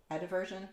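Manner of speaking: "Adversion" said with a clear d, "ad-VER-zhun"; questioned pronunciation. Shown as a demonstration. Streamer unsure of the word, testing "Adversion" as "ad-VER-zhun". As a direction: test "Adversion" as "ad-VER-zhun", low and softly. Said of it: "I don't remember which one it is".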